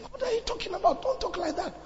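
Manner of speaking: high-pitched mock reproach; retold rebuke. Acts out rebuking the brother.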